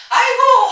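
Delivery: a high, loud mock "아이고" with a laugh; mock wail. Voicing unbeliever's lament.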